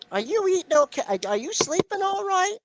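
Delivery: worried mother. Retold or imitated. Son mocking worried mother.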